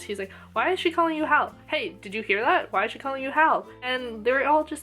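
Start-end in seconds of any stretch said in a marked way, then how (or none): 0.5-3.7 quick, incredulous questioning in imitation; mock mind-blown. Imitating Ranta baffled by Hal's new nickname, mock mind-blown. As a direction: play at being baffled, hurrying the question out. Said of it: "completely mind blown".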